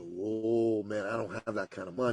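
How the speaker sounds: low, soft, taken aback; hushed retold dismay; deflated reply. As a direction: back off quietly, voice dropping.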